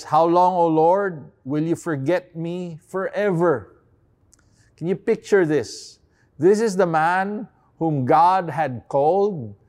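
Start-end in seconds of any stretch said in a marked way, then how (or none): 0.0-3.8 pleading. Shown as a demonstration. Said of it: "It says".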